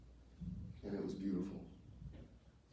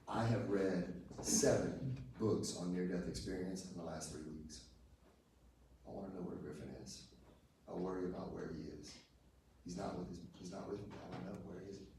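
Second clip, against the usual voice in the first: retold worry. Retelling his worry about Griffin.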